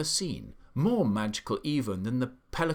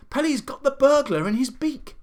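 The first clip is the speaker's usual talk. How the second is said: much higher triumphant cry; excited cry; 14 semitones higher, 8 dB louder than usual. A narrator's reading. The monkey seeing the burglar caught, crying out high. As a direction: shriek with triumph.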